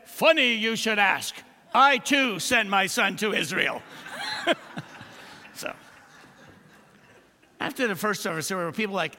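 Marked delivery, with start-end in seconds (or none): 0.1-3.8 louder, grand voice from above; booming voice from heaven. Acted. God's voice delivers the punchline. 3.9-5.0 airy high laugh at the joke; high breathless laugh. Real, not acted.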